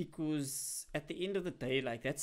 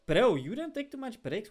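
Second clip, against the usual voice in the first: loud, higher disbelief; incredulous; 6 semitones higher, 9 dB louder than usual. Real, not acted. Streamer answers chat about taking breaks, incredulous. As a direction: blurt it out in real disbelief.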